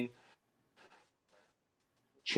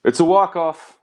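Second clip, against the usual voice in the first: high-pitched, punchy movie-line impersonation; Billy Zane; 8 semitones higher, 4 dB louder than usual. Retold or imitated. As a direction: call it out high, hamming up the actor. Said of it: "that's my Billy Zane impersonation".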